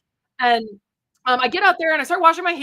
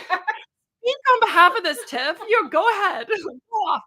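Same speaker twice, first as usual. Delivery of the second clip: teasing laugh; 6 semitones higher than usual. Pretend. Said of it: "I'm like".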